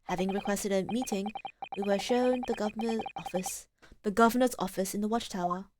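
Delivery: soft, measured game narration; story narration. A narrator's reading. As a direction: read the scene-setting softly. Reads game narration aloud.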